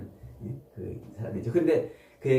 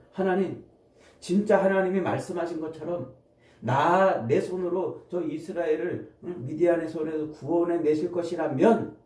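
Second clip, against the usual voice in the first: higher-pitched, insistent appeal; acted petition to God; 4 semitones higher than usual. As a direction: play Gideon bargaining with God. 기드온이 하나님께 증거를 청함. (높은 음으로 간청하는 연기)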